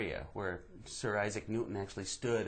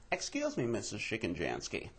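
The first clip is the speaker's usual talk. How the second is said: put-on overly formal child voice; polite little genius; 3 dB quieter than usual. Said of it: "he'd go".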